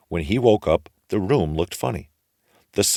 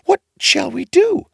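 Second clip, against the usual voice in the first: high, fretful wailing voice; desperate worried mother; anxious widow; 7 dB louder than usual. A narrator's reading. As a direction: wring your hands and fret aloud. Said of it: "said the widow, wringing her hands".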